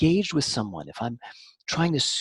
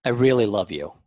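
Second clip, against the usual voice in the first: flat hollow I really love you; insincere love you; 3 semitones lower, 4 dB louder than usual. Shown as a demonstration. Showing an unconvincing declaration, hollow and insincere. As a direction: say it without meaning it. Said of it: "So if I'm saying".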